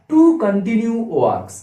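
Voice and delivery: each word drawn out slowly for the class; very slow teacher dictation. Shown as a demonstration. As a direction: spell it out slowly so they can note it. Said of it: "মনে রাখো পয়েন্টটা".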